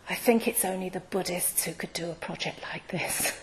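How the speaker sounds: whispered, secretive confidence; hushed whisper. Retold or imitated. Whispering a secret aside to the speaker. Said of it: "she took me aside in a very hushed tone".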